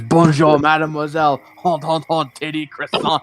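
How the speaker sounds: put-on hammy French accent. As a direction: play up a cartoon French accent. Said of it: "Every time I hear someone do a French accent".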